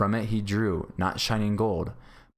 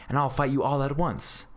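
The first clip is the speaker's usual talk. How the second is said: higher-pitched, heated demand; violent protest; 7 semitones higher than usual. A narrator's reading. Beggar challenges his three captors, violent protest. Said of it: "said the beggar violently".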